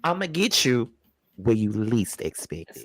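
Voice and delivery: lightly played menacing villain, dropping low; a hint of a cartoon baddie plotting revenge. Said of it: "I'm sounding like a cartoon villain right now".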